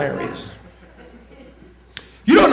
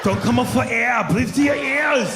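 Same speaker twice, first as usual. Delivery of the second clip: high, stretched shouted orders; hammed-up command; 6 semitones higher than usual. Comic acting out bedroom orders, hammed-up. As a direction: bellow it high like a movie action hero. Mimicking a man during sex.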